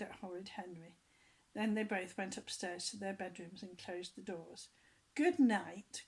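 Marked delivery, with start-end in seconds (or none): 5.1-6.0 cheerful call. A narrator's reading. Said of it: "called Henry cheerfully".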